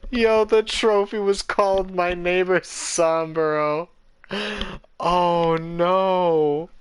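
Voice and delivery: loud, high, slow words through laughter; laughing while talking. Real, not acted. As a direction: still cracking up. Still laughing at trophy.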